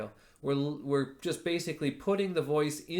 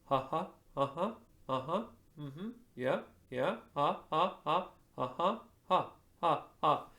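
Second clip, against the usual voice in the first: breathy laughing uh-huh; 2 semitones higher than usual. Shown as a demonstration. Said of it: "you breathe your expression".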